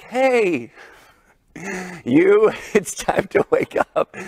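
gentle wake-up. Retold or imitated. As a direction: ease a sleeping girl awake, kindly. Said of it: "I'm being nice".

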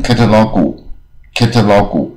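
"catalog" with an added "gu" syllable at the end; Taiwanese-accented catalog. Shown as a demonstration. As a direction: say "catalog" the Taiwanese way, ending in a full "gu". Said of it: "这个台湾人很多念".

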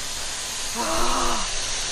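sharp gasp from the cold. Real, not acted. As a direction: gasp at the icy water. Cold water on her.

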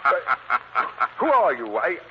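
slow, drawn-out frightened question. Acted. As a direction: stretch it out in dread of the unseen voice. Terrified man hears unseen voice.

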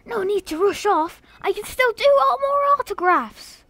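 hammed-up British accent for a game character; playful fake British lilt. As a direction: put on a mock British voice. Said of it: "was that a fake British accent?".

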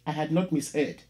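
measured, dramatic poetry reading; poem reading. Acted. Teacher reading a poem to the class, dramatic recital. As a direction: read it like a performed poem, every image weighed. Reads poem Telephone Conversation aloud.

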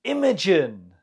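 "Imogen" stressed on IM, falling away; stress on first syllable. Shown as a demonstration. Teacher models a name for the pronunciation round, "Imogen" stressed on first syllable. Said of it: "The stress is on the first syllable".

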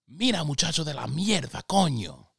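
high, loud mock scolding mother in Spanish; mom scolding in Spanish. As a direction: bark it in Spanish like an exasperated mom. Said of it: "That's what she would say to me".

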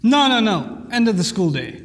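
lightly voiced teacher issuing a warning; teacher shutting down a misbehaving child; a hint of stern schoolteacher. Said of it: "and the teacher says".

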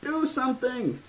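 put-on very high panicked girl's shriek; a terrified child begging, voice way up; scream. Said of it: "Alexis screamed".

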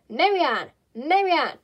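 loud high call for Marianne. Acted. Rabbit calling his maid from outside, loud call. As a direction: shout the name across the house.

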